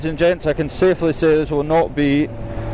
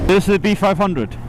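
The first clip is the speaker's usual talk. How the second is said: light mock German accent on B five hundred; playful German tourist voice; fake German accent; 4 semitones higher than usual. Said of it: "the fake German accent".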